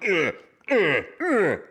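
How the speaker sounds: high retching gags, loud; mock gagging. Friend gagging in the Uber beside her, retching. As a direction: fake gag in disgust.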